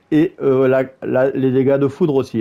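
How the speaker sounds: hesitant, with filler and repeated false starts; stumbling over words. Real, not acted. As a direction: stumble briefly before finding the phrase. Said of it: "je bafouille un peu". (en bafouillant un peu)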